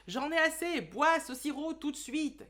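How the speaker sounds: cri exaspéré et aigu; maman qui crie. Acted. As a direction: hurler l'ordre, à bout de nerfs. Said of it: "je me suis amusée à crier cette phrase". (maman exige que l'enfant boive le sirop)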